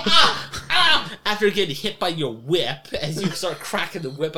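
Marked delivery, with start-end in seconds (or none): 0.0-1.1 high loud yelps of pain; hammed-up pained yelps. GM voicing captives hit by the whip, high loud yelps. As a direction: yelp like you got whipped. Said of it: "They go".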